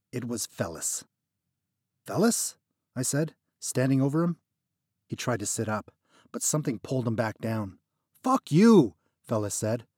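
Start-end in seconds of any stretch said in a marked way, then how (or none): 2.1-2.6 surprised recognition. A narrator's reading. 8.2-9.0 higher, louder desperate curse; pained curse. Acted. Trapped friend cursing at narrator.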